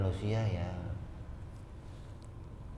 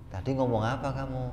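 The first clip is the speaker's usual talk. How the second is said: normal talking voice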